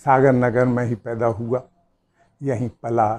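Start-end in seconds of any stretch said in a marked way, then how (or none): none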